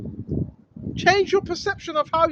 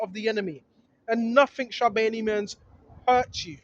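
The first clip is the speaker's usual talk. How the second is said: scripture reading; 3 semitones lower than usual. Acted. Preacher reading scripture to the viewers.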